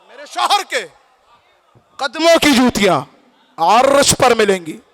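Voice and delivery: preacher repeating the line, settling down from the peak; measured preaching. Acted. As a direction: declaim in short phrases with pauses. Repeats climax after crowd response.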